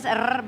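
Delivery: trilled R in a Scottish accent; rolled Scottish R. Shown as a demonstration. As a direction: roll the R like a Scot. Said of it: "that's Scottish".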